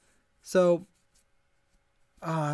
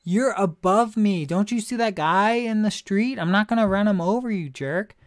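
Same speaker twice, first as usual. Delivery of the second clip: louder, higher annoyed outburst at the honker; mock angry retort; 4 semitones higher, 4 dB louder than usual. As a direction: tell off the honking driver. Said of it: "I'm like".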